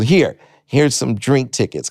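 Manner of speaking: imitated club owner. Club owner to underage comic, bossy instructions. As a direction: lay down the rules, word by word.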